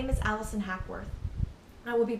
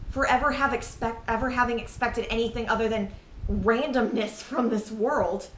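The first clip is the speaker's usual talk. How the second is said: raised, exasperated voice; louder, bitterly accusing; angry outburst; 2 semitones higher, 4 dB louder than usual. Acted. Blaming self and sister for expecting anything, angry.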